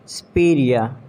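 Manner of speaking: "superior" as s'PEER-ee-uh; reduced SU, silent final R in "superior"; British pronunciation. Shown as a demonstration. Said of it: "It's superior".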